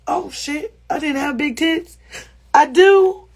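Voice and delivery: sarcastic astonishment; mock surprise. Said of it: "It's a whole clip I acted out".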